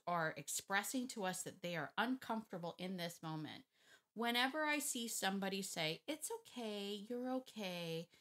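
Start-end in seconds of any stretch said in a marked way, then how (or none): 6.1-8.1 softened reassurance. Shown as a demonstration. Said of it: "they immediately change their tone".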